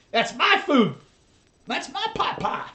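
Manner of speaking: high squeaky cat voice. Acted. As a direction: voice the cat guarding its food. Voicing the cat's protest.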